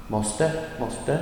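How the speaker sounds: "måste" said twice, short and light. Shown as a demonstration. Teacher showing the auxiliary is short, "måste" kept brief. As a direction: keep each "måste" brief.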